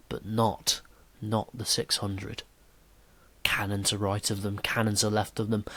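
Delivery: stirring, measured poem reading; poem recital. Acted. Teacher reading Tennyson's poem to the class, stirring and measured. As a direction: declaim the charge with rising drama.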